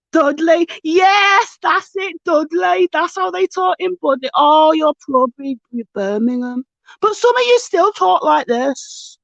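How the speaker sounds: lightly mocking Dudley accent. Streamer teasing Brummies about their talk, mock Dudley accent. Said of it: "that is a Dudley accent".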